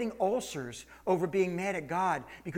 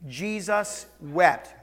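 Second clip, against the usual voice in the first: slow call together; 4 dB louder, much slower than usual. Shown as a demonstration. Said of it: "Would you say that with me?".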